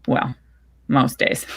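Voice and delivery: light chuckle through the words; chuckling mom. Acted. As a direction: mom chuckling about missing dad. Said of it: "She chuckles".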